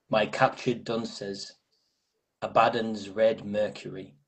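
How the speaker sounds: slow, measured poem reading. Acted. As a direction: let each image hang in the pauses. Reads the micro poem aloud.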